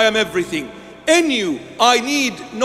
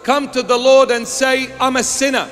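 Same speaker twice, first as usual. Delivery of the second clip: building sermon; 2 semitones higher than usual. Acted. Preacher rousing the congregation. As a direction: drive the repetition home.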